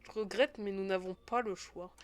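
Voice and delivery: put-on rough, amateur Russian accent; attempted Russian accent. Game character refusing with regret, attempted Russian accent. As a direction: try a Russian accent without quite getting it.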